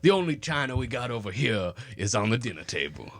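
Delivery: lightly mocked genteel Virginia Southern; Virginia accent. Friend joining the fancy china bit, Virginia accent. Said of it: "your accents are always over here".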